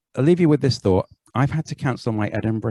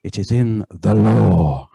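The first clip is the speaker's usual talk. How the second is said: "law" punched slow and heavy; "It is in the law" with "law" stamped in caps; block capitals on law; 4 semitones lower, 4 dB louder, slower than usual. Retold or imitated. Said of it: "final word in block capitals".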